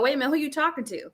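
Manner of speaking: quick, sharp parental rebuke; checking a child. Retold or imitated. Parent checking a child's tone, sharp and quick. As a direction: snap back at a mouthy kid. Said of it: "just like when you're with your child".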